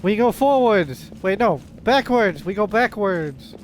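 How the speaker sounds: slow, loud, manic madman; slow loud raving madman imitation. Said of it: "the madman voice in this game".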